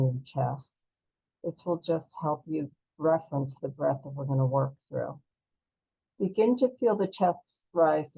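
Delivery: calm, unhurried breath-work guide voice; soothing meditation teacher, leading the class; guided breathing meditation. Acted. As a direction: guide them gently through each breath.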